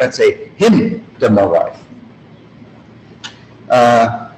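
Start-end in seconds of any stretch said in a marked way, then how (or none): 0.6-1.8 "Him da my wife" with the weight on "Him"; emphatic stress on HIM. Shown as a demonstration. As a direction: pick out "Him", then let the rest fall. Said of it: "I wanted to be emphatic".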